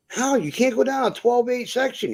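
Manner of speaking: can't believe what he's seeing; the trucker questioning him, high incredulous retelling; retold disbelief. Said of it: "I'm like".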